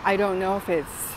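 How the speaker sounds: slight lisp, sore tongue. Real, not acted. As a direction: talk carefully around a swollen tongue. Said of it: "kinda have, like, a slight lisp to it".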